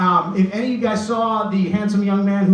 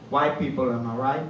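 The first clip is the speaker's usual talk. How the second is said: doll voice; 5 semitones lower, 5 dB quieter than usual. Retold or imitated. Doll Lester speaks in a story.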